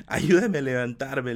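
slow, strained plea from the ground; pained plea. Retold or imitated. Hurt boy begging his grandfather to help him up, strained. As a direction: beg for help, hurting and slow.

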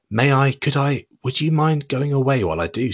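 Jill's voice. Acted. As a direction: play a girl asking nervously. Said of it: "said Jill".

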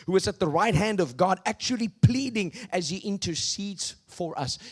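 loud proclaimed reading; preaching. Acted. Preacher reading scripture to the congregation, proclaiming. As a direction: declare the verses boldly.

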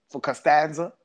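imitating a mildly puzzled "Costanza?" with a lift at the end; puzzled question. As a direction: ask "For Costanza?" as if the name makes no sense. Retold puzzled question, first take.

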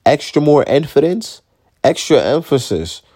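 baffled at your own slip, then correcting it; exasperated echo of own mistake; incredulous self-correction. Real, not acted. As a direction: question the botched word, then fix it firmly. Catches own slip, repeats it incredulously.

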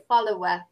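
"follower" with the last R dropped to "uh"; silent final R. Shown as a demonstration. Teacher explains the ending, silent R in follower. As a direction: end "follower" on an open "uh", unrolled. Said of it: "The R, R is like silent".

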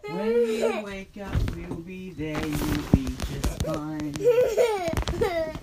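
slow soothing bedtime voice; tucking in at bedtime. Real, not acted. Soothing sleepy child.

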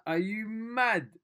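high, slow, laughing disbelief; inner excited squeal. Retold or imitated. Vlogger reliving his inner reaction to being respected. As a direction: stretch it out, almost laughing. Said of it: "inside I was like".

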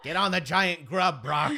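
laughing command. Retold or imitated. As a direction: giggle while ordering. Quoting playfully.

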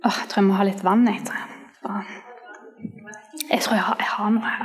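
soft fast whispered aside; quick whispered aside about a dry throat. Real, not acted. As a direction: mutter it off-mic to yourself. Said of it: "tørr i halsen".

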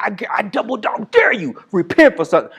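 put-on high, childish double-dog-dare taunt; mock dare. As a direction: tease like a kid daring a friend.

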